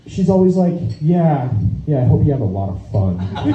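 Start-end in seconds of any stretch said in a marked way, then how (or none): 1.0-3.2 low, mildly sarcastic send-off; understated mock resentment; resentful wife. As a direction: imitate a wife grudgingly wishing fun. Wife's resentful send-off, voiced.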